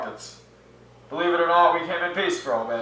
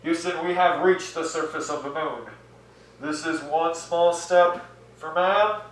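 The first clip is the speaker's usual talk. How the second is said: muffled, nose pinched. Acted. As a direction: mouth covered, nose held shut. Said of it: "'cause we're covering our mouths and pinching our nose".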